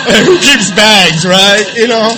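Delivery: laughing while talking; words bubbling with laughter. Real, not acted. Laughing through the story.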